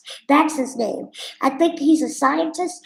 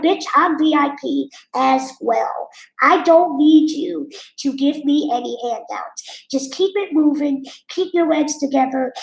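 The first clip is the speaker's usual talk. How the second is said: retold mad comeback. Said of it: "That's how mad I was".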